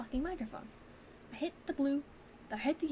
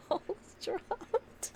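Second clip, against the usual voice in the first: voice cracking; 11 semitones higher, much slower than usual. Real, not acted. Streamer laughing as her voice breaks on stream, cracking. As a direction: let the voice crack while laughing. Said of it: "my voice".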